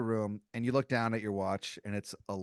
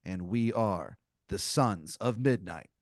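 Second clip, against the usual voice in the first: slow, mock-solemn group title; portentous announcement; slower than usual. Three intruders naming their group, slow and portentous. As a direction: spell out the name with theatrical weight.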